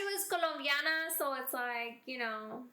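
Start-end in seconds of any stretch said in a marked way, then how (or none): 0.3-1.1 COLOMBIANA with Spanish vowels; Spanish pronunciation of Colombiana; Spanish accent. Real, not acted. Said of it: "said it with a Spanish accent".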